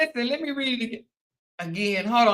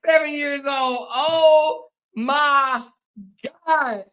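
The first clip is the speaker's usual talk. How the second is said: cracking up; 3 semitones higher, 3 dB louder, much slower than usual. Real, not acted. Repeating the punchline to viewers, cracking up. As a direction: let the punchline crack you up.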